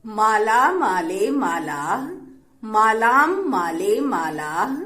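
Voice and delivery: linked recitation, pausing only after every third form; three numbers together. Shown as a demonstration. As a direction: chant each set of three in one connected run. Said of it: "एक साथ पढ़ना सीखेंगे तीनों वचन में".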